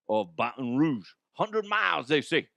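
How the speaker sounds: a hammed-up, badly faked Cajun accent. Shown as a demonstration. Host telling a radio audience where the forest is, in a mock Cajun accent. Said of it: "That's a horrible Cajun accent".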